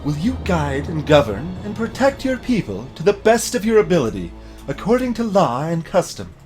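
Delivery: a solemn priestess asking the oath. Acted. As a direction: ask it like a temple priestess. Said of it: "what was the other priestess voice?".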